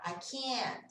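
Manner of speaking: "can't" held long, T not released; stretched "can't". Shown as a demonstration. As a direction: draw out the vowel in "can't". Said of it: "Ele fica mais estendido". ("can't" bem estendido, sem T)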